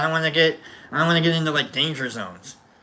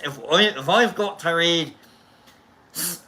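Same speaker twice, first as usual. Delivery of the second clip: lightly put-on Scottish voice; playful touch of Scottish; Scottish accent. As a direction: slip into a mock Scottish accent. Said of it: "in a Scottish".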